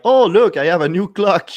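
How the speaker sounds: delighted and clueless; clueless guy opening a ticking package, cheerful; naive guy. Retold or imitated.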